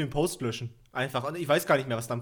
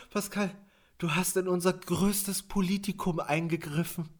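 mock solemn boss; 3 dB quieter, slower than usual. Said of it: "Der meinte so".

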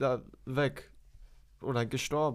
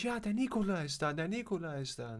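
lightly voiced excited dog, higher; a dog overjoyed his owner is home; happy dog voice; 4 semitones higher, 4 dB quieter than usual. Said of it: "war immer so fröhlich". (fröhliche Hundestimme, leicht gespielt)

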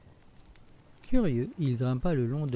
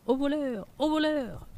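much higher, yelling ogre alarm; ogre shouting. Acted. Ogre wakes and shouts at the fleeing thief. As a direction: cry thief as the hen is stolen. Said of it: "l'ogre qui cria".

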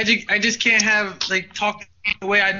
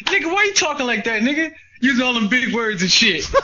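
mock neighborhood challenge; 3 semitones higher than usual. Old friends questioning his educated speech, mock incredulous. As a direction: call out the fancy talk, imitating.

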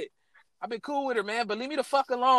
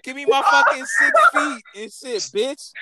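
higher, exasperated retold rant at the teacher; fed-up rant; 8 semitones higher, 4 dB louder than usual. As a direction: vent it like you're sick of her. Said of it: "I was like".

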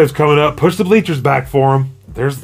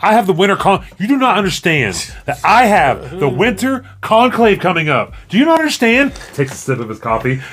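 put-on pleading, high whiny kid begging mom; a kid nagging mom for a ride, pleading whine; 4 semitones higher than usual. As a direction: whine at mom like a spoiled teen. Kid whining at mom skit.

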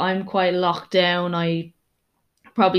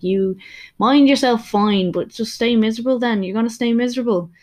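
imitated retort; 4 semitones higher, 3 dB louder than usual. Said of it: "I'm like".

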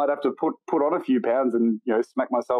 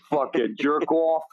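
put-on New York accent; 3 semitones higher, slower than usual. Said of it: "I fucking love that New York accent".

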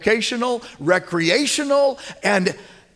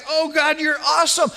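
joyful shout; 9 semitones higher than usual. Acted. Praising God for his wife.

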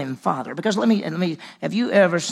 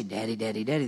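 put-on childlike calling; 5 semitones lower, 5 dB quieter, faster than usual. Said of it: "We say".

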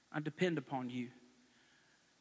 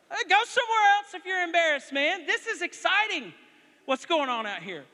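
higher, louder fired-up scolding; excited shout; 9 semitones higher, 8 dB louder than usual. Retold or imitated. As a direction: tell the kid off mid-cheer. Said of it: "when you're excited ... you shout".

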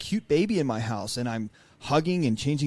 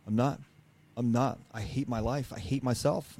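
much softer, a quiet retold breakdown; broken admission; 6 dB quieter than usual. Husband admits to his wife, softly breaking down. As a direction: let it fall apart under his breath. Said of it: "And I fucking lost it".

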